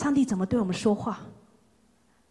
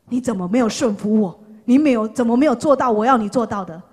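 scolding; 5 dB louder than usual. Pretend. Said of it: "并且他没有要恐吓我们".

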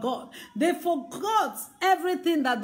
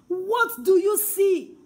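slower, louder, higher challenge; pressing challenge; 5 semitones higher, 4 dB louder, slower than usual. Acted. Preacher confronting the congregation, loud and slow. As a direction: demand an answer slowly.

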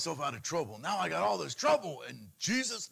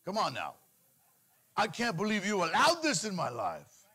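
mock complaining. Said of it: "complaining to God".

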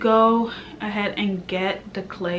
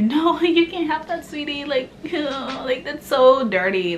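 mock sweet scolding; 5 semitones higher than usual. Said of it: "people telling you".

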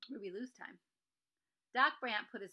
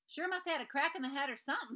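cowboy voice; 6 semitones higher, 7 dB louder than usual. Acted. Tickle's cowboy voice.

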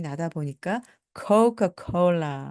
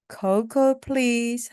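polite request; 5 semitones higher, much slower than usual. Shown as a demonstration. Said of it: "model request".

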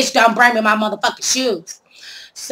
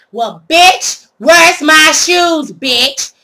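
drawn-out, louder demand for her shoes; angry yell; 5 semitones higher, 5 dB louder, much slower than usual. Retold or imitated. Retelling how she yelled at the thief in the car, slow angry yell. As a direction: call her out slowly and loudly.

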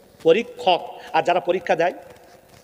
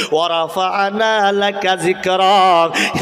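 slow chanted Arabic verse; Quran recitation; slower than usual. Acted. Preacher reciting the verse to the gathering, slow chant. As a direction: draw the verse out slowly.

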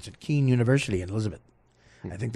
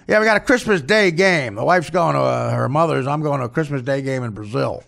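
Don Zimmer; 3 dB louder than usual. Acted. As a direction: caricature starting loud, settling down. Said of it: "it's Don Zimmer".

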